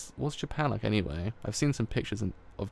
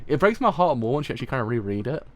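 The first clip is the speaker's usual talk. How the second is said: louder, pitched up, heart-on-sleeve; heartbroken gush; 3 semitones higher, 6 dB louder than usual. Real, not acted. Reader telling viewers rereading hurts more, emotional. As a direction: let the heartbreak spill out loud. Reader gushing over the manga.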